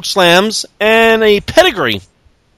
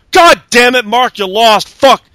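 mock frustration; 4 semitones higher than usual. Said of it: "Big Show was on commentary going".

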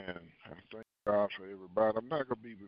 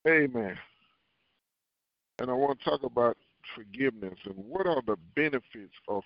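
louder delivery to the listeners; speaking up; 7 dB louder than usual. Real, not acted. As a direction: project the topic so everyone hears. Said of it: "speak up a little louder".

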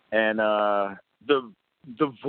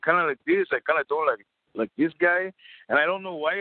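higher-pitched cartoon snow monkey; 5 semitones higher than usual. Shown as a demonstration. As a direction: do a little snow monkey character voice. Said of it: "the, the snow monkey. I did him kinda".

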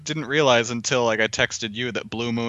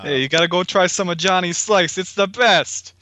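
higher-pitched, punchy character impression; higher and louder put-on voice; Tito; 6 semitones higher, 4 dB louder than usual. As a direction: play an excitable salesman-like regular pushing a favorite place. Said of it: "That's my Tito impression".

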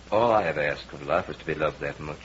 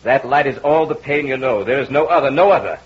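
hypnotic crescendo; 7 semitones higher, 8 dB louder than usual. Acted. Hypnotic command peaks.

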